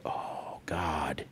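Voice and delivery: breathless whisper to himself; mock-awed whisper; whispered aside. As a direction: hush it under your breath, amazed. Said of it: "And I'm like".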